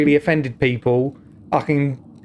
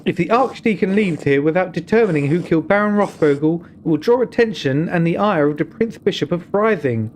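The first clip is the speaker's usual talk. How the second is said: higher, measured voice of a wary nun; a nun cautioning the visitor, firm and grave; stern nun; 3 semitones higher than usual. Acted. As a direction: warn him like a careful abbey sister.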